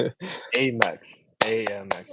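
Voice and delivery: slow "A M X", testing it as AY-mex and AY-uh-mex; extra syllable. Shown as a demonstration. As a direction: stretch "A M X" out syllable by syllable. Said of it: "I'm wasting energy saying it".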